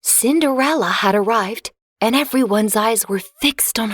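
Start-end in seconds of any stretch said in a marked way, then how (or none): none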